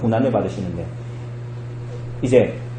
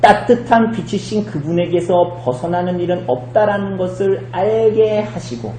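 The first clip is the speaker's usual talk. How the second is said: ordinary delivery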